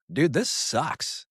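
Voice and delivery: drawn-out, slow mock complaint; exasperated quote, stretched slow; mock exasperated concertgoer. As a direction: drag it out, fed up. Acted frustrated concertgoer stuck in parking.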